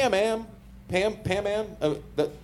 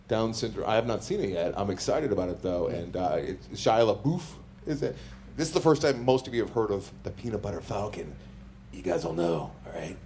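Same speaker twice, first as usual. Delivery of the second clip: wrestling promo voice; 3 semitones lower than usual. Acted. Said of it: "Did you just do a wrestling promo".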